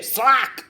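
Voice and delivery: high, sudden "swaak"; spoken smack sound. Acted. Storyteller imitating a blow landing, high spoken smack.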